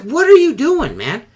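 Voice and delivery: high, loud, alarmed shout; retold yell. Yelling at coworker walking a narrow beam, shocked shout. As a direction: yell it like you've caught him on the ledge.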